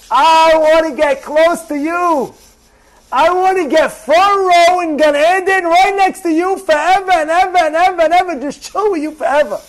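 fervent inner vow. Acted. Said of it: "internalize and say".

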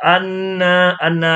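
"อันนา" with the n hummed and held; held nasal sound. Shown as a demonstration. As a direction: linger on the n of "อันนา" before releasing. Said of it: "หน่วงเสียง".

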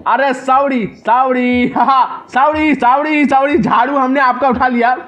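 high, rapid pleading sorries; panicked apology. Real, not acted. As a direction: plead with the granny in a fluster. Caught with granny's broom, apologizing. (घबराकर ऊँची आवाज़ में माफ़ी)

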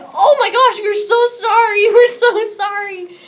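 high, loud, laughing apology. Retold or imitated. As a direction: gush sorry through laughter. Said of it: "I'm like".

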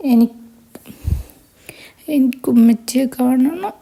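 small tearful whisper for her mother; girl at her mother's grave, whispering sadly; whispering child. Acted. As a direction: whisper it like a grieving little girl.

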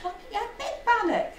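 BIG pitched high; stress on BIG. Acted. Mum promising Jock a bannock, high stress on BIG. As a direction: leap up high on "big", quickly.

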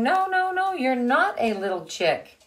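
high, loud chicks rejecting him; chicks saying no. Acted. Teacher voicing the chicks to the class, high and loud. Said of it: "They were saying".

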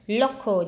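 "Local" with weight on "Lo"; first-syllable stress. Shown as a demonstration. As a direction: lean on the start of "Local". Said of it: "nhấn âm một".

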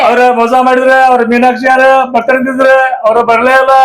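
mild comic whining sob; crying. Acted. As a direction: tearfully complain about being stood up. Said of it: "ಯಾಕ್ ಅಳಾಕತ್ತೀರಿ ಹೇಳ್ರಿ".

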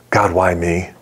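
low, understated echo of the plea; gentle echo. Retold or imitated. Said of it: "in just such a sweet and gentle way".

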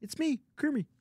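high-pitched puppet frog voice; Kermit. Retold or imitated. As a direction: greet strangers as a chipper frog puppet. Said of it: "does a pretty good Kermit impression".

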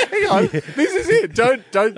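high, laughing rush; laughing hurry. Real, not acted. Host racing the clock while laughing. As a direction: giggle while pushing on. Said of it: "I've only got a minute".

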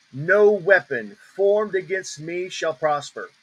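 slow, with weight on "No" and "me"; measured scripture declaration. Shown as a demonstration. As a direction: declare it deliberately, leaning on "No". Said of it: "And then I'll just emphasize".

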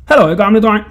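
high, loud taunt; calling out mockingly. A narrator's reading. Boy grinning at the jailer, calling out high and loud. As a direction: shout a cheeky hello. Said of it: "grinede af ham og råbte".

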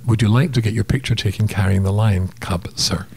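clearer, decoded version of the accented line; slowed down. Shown as a demonstration. Storyteller translating the attendant's offer for confused co-hosts, slowed down. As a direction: spell it out plainly for the listeners. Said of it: "Slowing that down".

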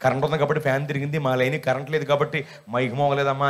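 lightly voiced lineman explaining; lineman pose. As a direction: explain the power lines like a know-all electrician. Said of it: "పెద్ద line మెన్లాగా అవతారం ఎత్తి".

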